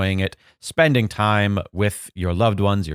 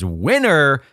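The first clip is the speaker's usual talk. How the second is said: "winner" punched louder and higher; stress on WINNER; 5 semitones higher, 4 dB louder than usual. Real, not acted. Producer covers an unsure name, punching "winner" proudly. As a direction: hit the word "winner" hard and draw it out. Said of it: "I know how to pronounce it as".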